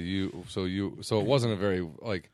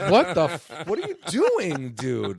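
retold exasperation; 2 semitones higher, 4 dB louder, slower than usual. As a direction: scold him in slow exasperation. Retold reproach at accent mimicry.

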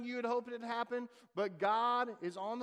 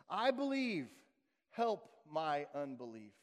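a hushed, slow plea after a sharp "I believe"; desperate plea; 3 semitones lower, slower than usual. Retold or imitated. Father crying out to Jesus.

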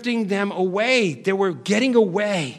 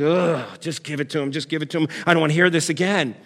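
low, weary mock groan; fed up, pitched down; exasperated giving in; 5 semitones lower than usual. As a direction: play a worn-down parent caving in. Worn-down parent giving in to child.

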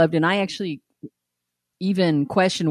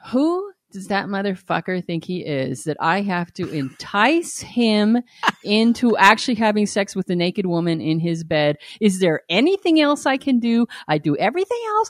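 building from muttered grumble to high, loud furious rant; resentful inner rant; 4 semitones higher, 4 dB louder than usual. Retold or imitated. Wife ranting about husband in her head, building to furious yell. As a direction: let the resentment boil over into yelling. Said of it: "The voice just goes on and on".

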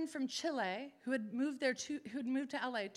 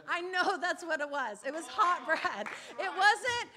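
laughing; 5 dB louder than usual. Real, not acted. Laughing at her own story.

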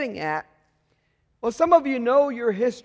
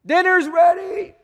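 put-on calling out to the kids; 6 semitones higher, 5 dB louder than usual. Parent calling kids to dinner.

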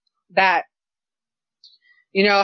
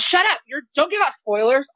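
annoyed moviegoer; 5 semitones higher than usual. Retold or imitated. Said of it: "And she goes".

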